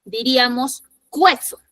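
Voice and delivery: cueso with a clear kwe sound; wrong cueso. Shown as a demonstration. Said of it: "si lo pronunciáramos".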